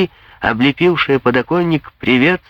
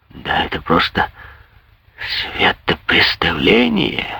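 indignant; 7 semitones lower than usual. Acted. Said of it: "возмутился Андри".

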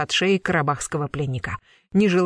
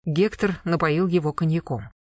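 usual speaking voice

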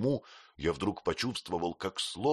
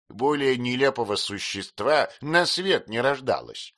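put-on higher, brisk old aunt, fondly scolding; aunt mocking a kind fool; 6 semitones higher, 5 dB louder than usual. A narrator's reading. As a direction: play the aunt, half amused. Aunt speaks.

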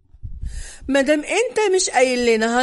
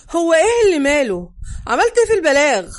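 loud, high and fast demand; shouting at Salah; 4 semitones higher, 6 dB louder, faster than usual. A narrator's reading. Narrator yells at Salah over the phone, loud and fast. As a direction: yell it down the phone, fast and sharp. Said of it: "صحت في صلاح".

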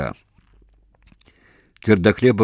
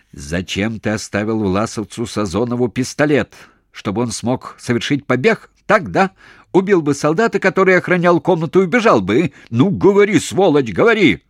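building to a high, loud, fast shout; furious interrogation; 7 semitones higher, 5 dB louder than usual. A narrator's reading. Interrogator screams at the prisoner, building into fury. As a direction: hammer him with accusations.

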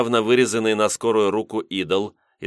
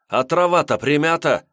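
higher, louder excited discovery; 9 semitones higher, 4 dB louder than usual. A narrator's reading. Glust showing the others the trampled grass, excited exclamation. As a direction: blurt it out, thrilled. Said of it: "воскликнул вдруг Глуст".

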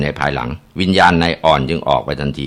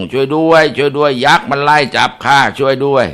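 terrified cry for help; 7 semitones higher than usual. A narrator's reading. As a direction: scream for help while fleeing. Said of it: "ตะโกนลั่นทุ่ง".

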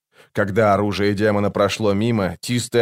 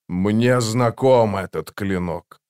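ordinary delivery, nothing marked

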